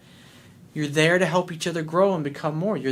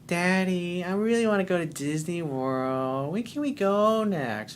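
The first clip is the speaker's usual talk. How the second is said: put-on little girl asking daddy; 4 semitones higher than usual. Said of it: "just like a little girl".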